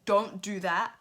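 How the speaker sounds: put-on a sudden loud "Girl" then a sharp "Why?"; exasperated loud reaction to Liberty; loud sassy reproach. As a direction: call her out loudly like a big sister. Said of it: "And I was like".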